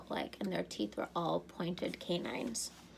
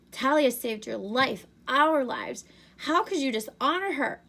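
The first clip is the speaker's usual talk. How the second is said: higher and louder, furious accusation; angry outburst; 6 semitones higher, 7 dB louder than usual. A narrator's reading. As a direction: hurl it at him, outraged. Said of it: "Annabeth sounded so angry".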